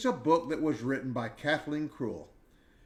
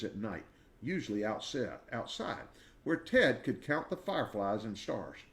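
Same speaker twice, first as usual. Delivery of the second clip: put-on gentle, lively read-aloud for children; storybook reading; 3 semitones higher than usual. A narrator's reading. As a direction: read it like a bedtime picture book. Reads picture book to listeners.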